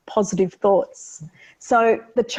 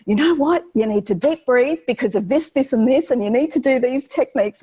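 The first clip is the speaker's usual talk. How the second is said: high-pitched, pushy parent lecture; mock-scold the stressed kid from above; lecturing parent; 4 semitones higher than usual. A parent lecturing an overwhelmed kid at the wrong moment, high and pushy. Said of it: "to go".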